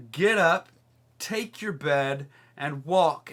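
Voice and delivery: loud firm command, slow on take; a firm healing command, each word set down; commanding Jesus. Retold or imitated. Jesus commands the lame man.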